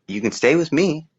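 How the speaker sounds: put-on high, gentle old-lady offer; a lightly voiced old woman taking a boy in. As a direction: offer him a home in her high voice.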